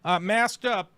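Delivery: high, whiny, hammed-up fretting; mock whiny reporter. Streamer mocking the reporter as whiny and scared of guards. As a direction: whimper like a coward fleeing. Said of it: "And he would go".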